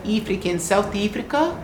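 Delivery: put-on South African vowels; amateur attempt at South African speech; bad South African accent. Shown as a demonstration. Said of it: "that's a very bad accent".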